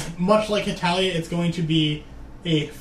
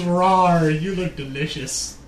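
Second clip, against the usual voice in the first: dinosaur voice; 2 semitones lower, slower than usual. Retold or imitated. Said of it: "The Tyrannosaurus says".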